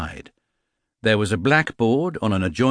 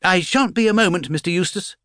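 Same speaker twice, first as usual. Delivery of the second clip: higher, called across the room; calling out; 11 semitones higher, 3 dB louder than usual. Acted. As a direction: call out from behind the desk lid. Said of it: "he called".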